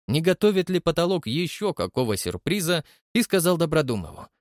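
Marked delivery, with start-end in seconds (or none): none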